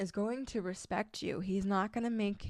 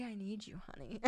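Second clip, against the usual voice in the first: sweet talk; 2 semitones higher, 10 dB quieter than usual. Retold or imitated. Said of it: "men love to be heroes, so say".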